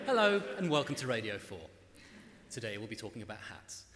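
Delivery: polished BBC presenter read; Radio 4 voice. Shown as a demonstration. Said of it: "This is my Radio four voice".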